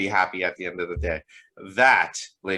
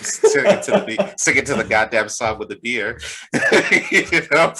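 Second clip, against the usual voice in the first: laughing; 3 semitones higher, 5 dB louder than usual. Real, not acted. Laughing while describing scene.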